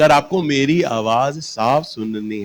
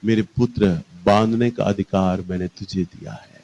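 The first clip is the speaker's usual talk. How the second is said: smiling gentle voice; 8 semitones lower, 6 dB quieter than usual. Retold or imitated. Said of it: "मुस्कुराते हैं और बोलते हैं".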